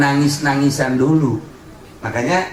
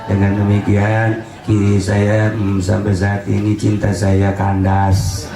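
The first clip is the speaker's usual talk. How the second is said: mock heartbroken message; 4 semitones lower than usual. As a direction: read it haltingly like a jilted lover, hammed up. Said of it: "pas baca S M S". (pura-pura patah hati, pelan dan mendayu)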